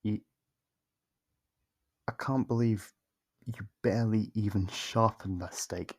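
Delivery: normal talking voice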